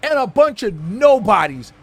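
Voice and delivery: hyped announcer calling the game; play-by-play commentary. Pretend. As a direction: narrate the action like a broadcaster.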